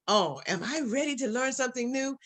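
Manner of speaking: put-on eager older mom. Bridget asking the coach if she is ready, lilting. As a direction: lift it up like a keen senior learner. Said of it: "And mom's like".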